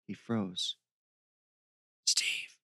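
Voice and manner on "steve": voiceless whispered call. Acted. Michael to Steve in dark woods, whispered. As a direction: whisper the name. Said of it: "he whispered".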